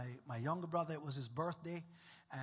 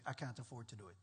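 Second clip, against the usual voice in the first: mock complaint; 9 semitones lower, 9 dB quieter, faster than usual. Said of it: "people who don't tithe say".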